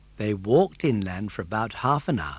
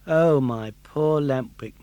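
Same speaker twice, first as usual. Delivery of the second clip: grieving murmur; 5 dB louder, slower than usual. Acted. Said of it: "murmured Pinocchio".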